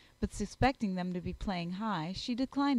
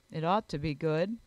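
a touch lower, sober gentleman; lightly voiced grave Darcy; 4 semitones lower than usual. Darcy replying to praise of his library, mildly grave. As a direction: answer with mild gravity, pitched down.

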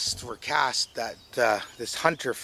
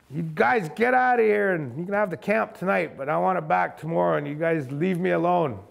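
raised-pitch retold holler, easing off; shouted warning; 4 semitones higher than usual. Camper warns the creatures off after firing, raised retold holler. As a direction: call out firmly to chase them off.

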